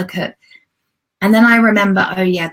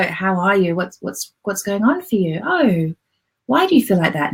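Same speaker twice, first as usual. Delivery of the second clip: put-on gentle voice for a child. Shown as a demonstration. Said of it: "Notice your tone of voice when you're speaking to a little girl".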